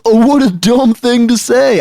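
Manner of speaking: very high, exaggerated exclamation; hammed-up high-pitched disdain; mock scorn. Acting out a rejected reading.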